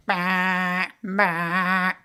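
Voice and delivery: "bah" blared out twice; imitated alarm noise. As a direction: mimic a door alarm going off. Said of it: "it goes".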